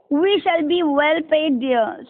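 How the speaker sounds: slow, careful reading aloud; slow model reading. Shown as a demonstration. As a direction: give the line slowly for the class. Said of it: "Now I am going to read the next stanza".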